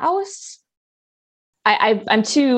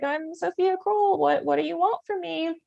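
flustered; 8 semitones higher, 4 dB quieter than usual. Retold or imitated. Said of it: "and I'm like".

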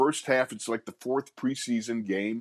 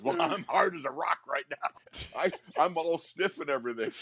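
a hint of a West Virginia twang, higher; light West Virginia twang; 4 semitones higher than usual. Guard pleading with his coach in a light West Virginia twang. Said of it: "He had a West Virginia twang".

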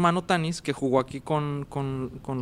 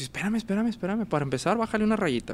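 calming uncle; 6 semitones higher than usual. Retold or imitated. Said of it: "me dice".

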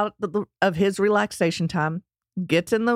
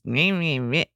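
grumbling meh; 3 semitones lower than usual. Retold or imitated. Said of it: "He was gripey".

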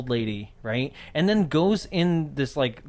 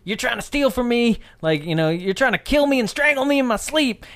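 higher-pitched movie-character impression; mock accusation; 6 semitones higher than usual. Old lady accusing her guests of trying to kill her, mock-accusing. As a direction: accuse them in a put-on, raised voice.

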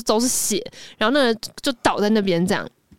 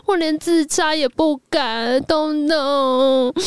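crying; 5 semitones higher, much slower than usual. Retold or imitated. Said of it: "然后开始哭".

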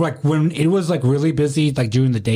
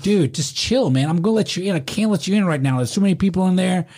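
higher-pitched exasperated reasoning; retold placating; 5 semitones higher than usual. Doorman telling an arguing guy to wait, placating and high. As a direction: talk down a pushy guest, pitch raised. Doorman retelling his pleas to calm.

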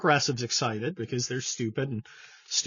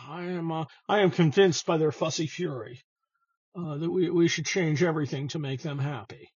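imitating McConnell. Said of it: "murder turtle impression, just go with me".

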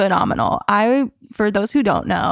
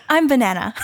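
higher, put-on dog voice; Banana; 5 semitones higher than usual. Owner voicing her dog introducing herself, dog's voice. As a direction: speak as a simple, happy pet. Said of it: "a banana voice".

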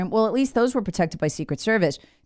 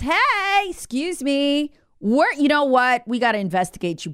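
mock calling out; 5 semitones higher than usual. Investigators announcing a probe to Biden, mock calling out. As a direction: imitate officials politely hailing someone.

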